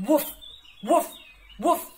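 short, loud playful barks; quick loud woofs; dog barks. Acted. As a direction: bark like a friendly puppy. Host voices the dog.

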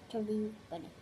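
mumbled through a mouthful of grapes; cheeks stuffed full. Real, not acted. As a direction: say Chubby bunny with cheeks stuffed.

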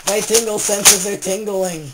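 slow booming mock-heroic line; dramatic loud announcement. Shown as a demonstration. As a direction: declare it like a superhero sense. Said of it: "repeats line with emphasis".

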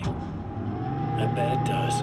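slow taunting whisper, barely voiced; a slow, breathy sneer of a whisper; menacing whisper. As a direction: lean in and breathe it like a threat. Doppelganger taunting his original.

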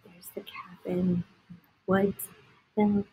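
soft unvoiced whisper; hushed. A narrator's reading. Reading to a child, whispering over the picture. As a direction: point it out in a whisper.

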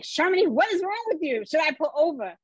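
high-pitched, retold panicked questioning; alarmed friend. Friend driving as her passenger starts screaming, retold alarm.

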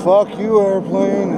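loud, high yell at the sky; shouting. Real, not acted. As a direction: yell it up at the plane. Yelling at a passing airplane.

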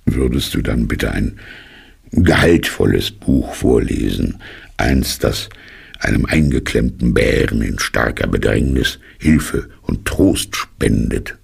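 traurig. Acted. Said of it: "Eine Träne rollte ihm die Wange hinunter".

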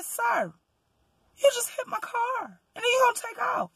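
high, strained indignant cry; mock-outraged wail at the driver; retold confrontation. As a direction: plead and accuse at once, voice cracking.

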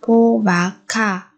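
po và ka said slowly and separately as two clear sounds; sound change shown. Shown as a demonstration. Teacher shows how phúc and ha turn into po ka, slow and careful. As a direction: lay out po and ka slowly, one at a time. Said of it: "Chúng ta biến âm thành".

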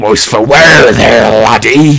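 rough go at a Scottish pirate; pirate trash talk in wobbly Scottish; mock-Scottish pirate brawler. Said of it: "Scottish? P-, pirateer".

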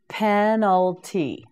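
Penalty said slowly, each syllable clear; slow Penalty down for the class; slow, careful model. Shown as a demonstration. Teacher modelling Penalty slowly for learners. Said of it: "teacher models the word slowly".

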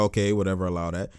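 low, soft shrug of a voice; resigned imitation. Streamer voices the player who got bodied, quietly resigned. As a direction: let it drop away, dismissively. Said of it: "He's like".

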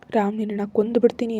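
loud furious threat; angry shout. Acted. Heroine threatening Ram over the phone, furious shout. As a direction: yell the threat in rage. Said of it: "ಕೋಪದಿಂದ ಕೂಗ್ದೆ".

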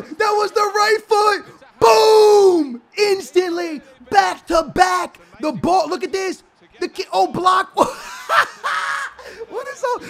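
high, loud commentator shouting over the goal; hyped play-by-play. Acted. Streamer commentates his own goal, high excited shouting. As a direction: call the goal like a stadium announcer.

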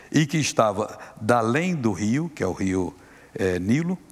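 solemn preaching read; scripture reading. Acted. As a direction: proclaim the verse. Reads scripture aloud.

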